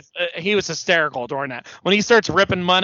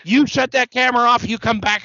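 high, raised mock warning; hammed-up indignant threat; imitated wrestler threat; 7 semitones higher, 3 dB louder than usual. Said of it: "And he's like".

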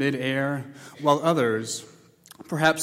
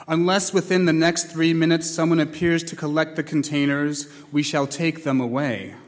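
louder, stern announcement over speakers; loudspeaker threat; 2 semitones higher, 4 dB louder than usual. Acted. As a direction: warn them coldly through the loudspeaker. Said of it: "The voice came again".

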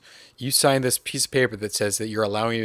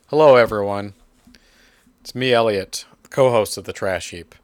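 mock host intro as Elliot; 3 semitones lower than usual. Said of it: "talking about yourself in the third person".

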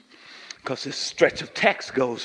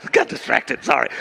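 laughing apology; 5 semitones higher, 7 dB louder than usual. Real, not acted. Laughing through apology to congregation.

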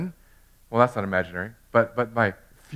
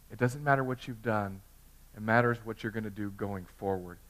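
peaceful voice of God; 2 semitones lower, 8 dB quieter than usual. Retold or imitated. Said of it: "where God said".

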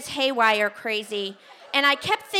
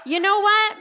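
much higher, louder; dazed surprise; 10 semitones higher, 6 dB louder than usual. Retold or imitated. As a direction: blurt it out, stunned. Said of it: "I'm like".

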